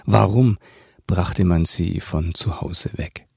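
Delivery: measured read-aloud with long pauses; audiobook-style narration with voiced dialogue; story narration. Reads own novel aloud.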